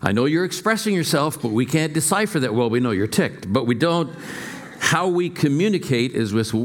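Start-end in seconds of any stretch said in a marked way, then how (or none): 0.0-4.1 put-on mother to tantruming child. Mother to her small boy mid-tantrum in the store, firm and higher. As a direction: talk down a little one's tantrum, pitched up. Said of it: "And the mother said".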